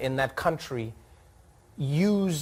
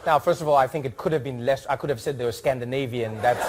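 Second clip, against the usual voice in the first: reading the ambassador's letter; 3 semitones higher than usual. Retold or imitated. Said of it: "read it how I hope he wrote it".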